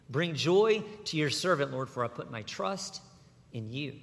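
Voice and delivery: earnest psalm read as a prayer. Acted. Preacher reads David's prayer to the congregation, pleading. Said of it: "David prays".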